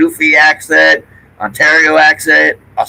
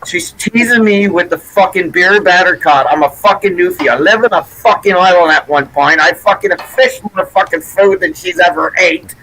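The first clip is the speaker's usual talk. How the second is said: worked-up, higher-pitched ranting; exasperated; 4 semitones higher than usual. Real, not acted. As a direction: rant about being teased. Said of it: "that drives me fucking crazy".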